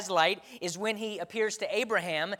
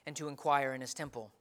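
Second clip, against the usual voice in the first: scripture reading; 2 semitones lower than usual. Acted. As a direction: read the psalm with reverence. Scripture reading before sermon.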